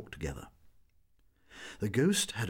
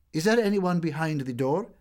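called out louder and higher; very loudly; 8 semitones higher, 6 dB louder than usual. A narrator's reading. Sorelli forcing courage, calling loudly through the door. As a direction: force courage into it. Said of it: "said very loudly".

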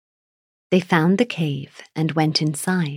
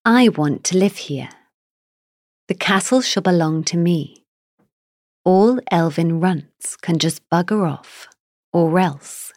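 angry giant; 3 dB louder than usual. Acted. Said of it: "his voice sounded like an angry, roaring bull".

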